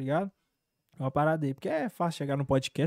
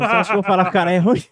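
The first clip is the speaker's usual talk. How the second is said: laughing; 9 dB louder, faster than usual. Real, not acted. Laughing at the absurd question.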